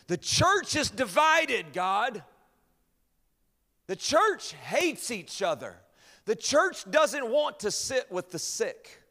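high, loud, slow wailing voice of the accuser; accuser crying out. Retold or imitated. The accuser crying out against the church to God, loud slow wail. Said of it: "And his voice cried out".

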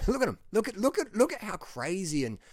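high, loud, laughing scorn; laughing mockery. Real, not acted. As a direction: laugh at them while you point. Mocking critics with a laugh.

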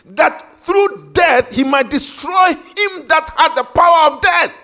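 slow, loud and high, booming out the verse; full-force preacher reading, drawn out; preaching shout. Acted. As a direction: thunder the scripture slowly.

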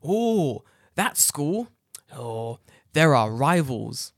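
mock-smug teacher, last words slowly drawn out. Mocking a boastful colleague, slow smug drawl. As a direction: drawl the boast like it's a secret. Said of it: "looks me directly into my soul and says".

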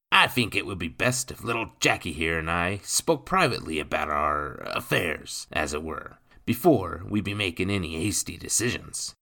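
oily cockney crook, smooth and wheedling; sly cockney rogue. Acted. Crook to the gentlemen, sly cockney wheedle. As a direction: slip the words out slyly. Nathan wants a private talk.

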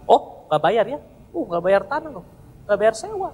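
lightly voiced menacing mob boss; a hint of a threatening gangster collecting debts. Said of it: "Dia bukan kayak bos mafia".

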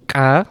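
ka with a sharp ejective pop at the back of the throat; uvular ejective. Shown as a demonstration. Showing the Georgian sound, ka as a uvular ejective. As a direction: isolate ka, k popped from the uvula. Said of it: "which is this uvular ejective".

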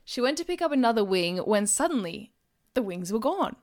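measured audiobook-style reading; story narration. A narrator's reading. Narrator reading a detective novel to listeners, storytelling voice. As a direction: read the mystery aloud, phrase by phrase. Reads their crime novel aloud.

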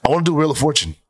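whispered confession; breathy half whisper. Real, not acted. Confessing game show wish.

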